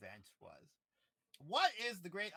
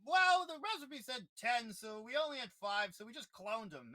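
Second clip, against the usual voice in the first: villain voice; 7 semitones higher, 7 dB louder than usual. Retold or imitated. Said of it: "so it's just like".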